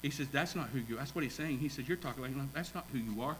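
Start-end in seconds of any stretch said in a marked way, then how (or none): 0.3-1.0 soft, understated quoted reassurance; gentle response. Retold or imitated. Job gently answering his wife, softly. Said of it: "That response was really gentle". 1.9-3.4 gentle response. Retold or imitated. Job gently answering his wife, softly. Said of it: "That response was really gentle".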